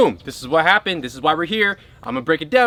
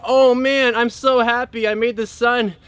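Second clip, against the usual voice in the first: higher, gushing joy over her creation; joyful goddess; 5 semitones higher than usual. Retold or imitated. Sophia delights in the sun she made, higher and gushing. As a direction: beam with delight at the new sun. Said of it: "Sophia was like".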